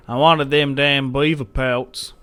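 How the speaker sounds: put-on American twang, drawn out; mock-American grumble of disappointment; American accent. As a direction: slip into a slow American accent. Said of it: "said that with an American accent".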